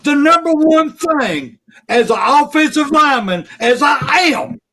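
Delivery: genuinely furious fan venting; real angry rant. Real, not acted. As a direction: let the frustration boil over. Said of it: "I'm fucking pissed off".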